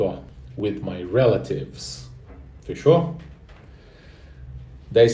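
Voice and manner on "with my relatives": slow model phrase. Shown as a demonstration. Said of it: "E se escreve desse jeito".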